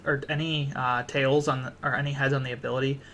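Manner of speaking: tired, stumbling over words; stuttering. Real, not acted. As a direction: stutter and restart the phrase, worn out. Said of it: "Sorry if I'm stuttering".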